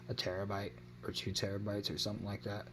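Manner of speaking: talking through a yawn; words stretched by a yawn. Real, not acted. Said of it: "I'm yawning over here".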